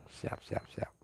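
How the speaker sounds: hushed whisper, barely voiced; soft late-night whisper. Real, not acted. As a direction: whisper so as not to wake sleepers. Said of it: "saya mulai berbisik-bisik".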